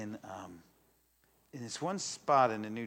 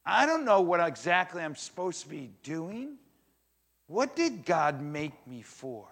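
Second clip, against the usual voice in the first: higher, louder, exasperated venting; frustrated listener; 4 semitones higher, 6 dB louder than usual. Retold or imitated. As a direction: voice a churchgoer's frustration, pushed higher. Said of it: "Maybe an anger a little bit".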